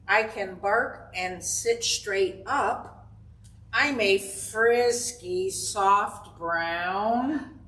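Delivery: slow, drawn-out riddle reading; reading to children. Acted. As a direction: read it slowly so the kids can guess.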